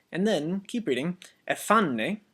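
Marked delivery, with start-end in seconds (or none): 1.5-2.2 ephane with the stress on FA; ephane, accent on the A. Shown as a demonstration. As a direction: lean on the middle A of ephane. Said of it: "the accent on the A".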